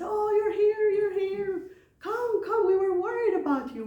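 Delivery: high, loud, joyful calling out; eager parents. Retold or imitated. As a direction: greet him like relieved old parents. Blind parents greet their son.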